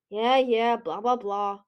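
bored, dismissive blah-blah. Acted. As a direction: brush it off with a wave. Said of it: "waving one talon in the air".

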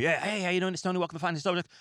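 imitating his old rushed, nervous podcast opener; nervous fast intro. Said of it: "I sound like one of those lawyers".

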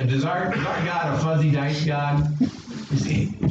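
ordinary talk, nothing marked

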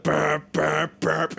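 repeated mouth-made brrp; rolled, rapid-fire brrp sound effect; imitated burp noises. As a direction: go brrp with each scoop.

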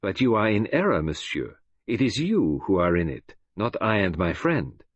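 put-on lightly accented, measured correction; composed Belgian detective. Detective tells gunman he is the trapped one, composed.

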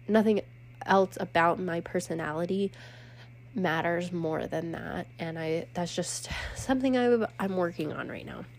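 short of breath, can't breathe through nose; out of breath with a stuffy nose. Real, not acted. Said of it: "And sorry for being out of breath".

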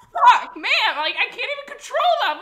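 high, loud exasperated laugh-talk; laughing helplessly at yourself; laughing frustration. Retold or imitated. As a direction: blurt it while cracking up.

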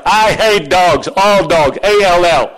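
"all dogs" hammered, then "A L L" spelled out letter by letter; slow, punched "I hate dogs", driving into "A L L"; emphatic insistence. Acted. Pastor overrules pleading dog owners, "A L L" spelled out emphatically.

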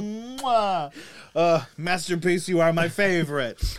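kiss, then high doting coo; doting dog lover. Retold or imitated. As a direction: gush over the little dog like a proud owner. Kissing his dog.

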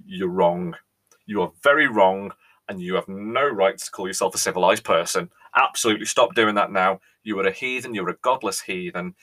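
hammed-up indignant scolding; mock outrage. Tea lover scolding viewers for bad tea, mock outrage. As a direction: scold the viewer like a scandalised Brit.

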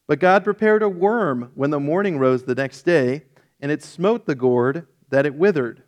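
steady, earnest Bible reading; scripture reading. Acted. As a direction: read the story aloud to the group. Continues reading the scripture passage.

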